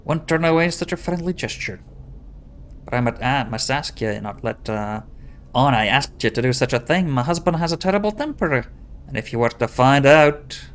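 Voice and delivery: worried wife in a mock Scottish accent; pseudo-Scottish accent. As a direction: put on a fake Scottish lilt. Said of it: "a pseudo-Scottish accent".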